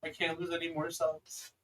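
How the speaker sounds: understated motherly pleading. Acted. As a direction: beg gently and slowly. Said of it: "pleading with you".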